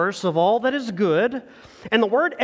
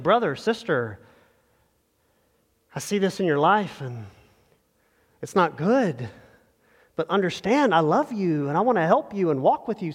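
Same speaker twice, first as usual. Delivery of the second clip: tender endearment; 2 semitones lower than usual. Acted. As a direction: confront someone lovingly, easing into it. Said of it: "come from a place of endearment".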